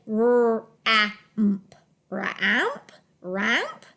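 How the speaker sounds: "ramp" sounded out with a short pure a, as in "cat"; puzzled, wrong-sounding "ramp"; unglued misreading. Shown as a demonstration. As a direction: misread "ramp" with an unglued a, ending in a questioning rise. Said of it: "didn't read it with the glued sound".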